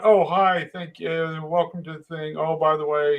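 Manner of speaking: a light imitation of friendly greeting; mock kind welcome. The kind greeting the foreman didn't give, mock friendly. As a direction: act out the welcome he never gave. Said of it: "he's not kind about this at all".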